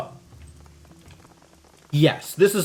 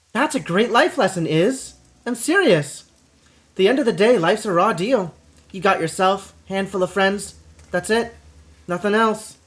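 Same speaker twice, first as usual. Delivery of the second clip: higher, brash companion voice; cynical Gobbet; 5 semitones higher than usual. Acted. Gobbet lecturing Isabel on life, brash and higher. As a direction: play him as a jaded street cynic.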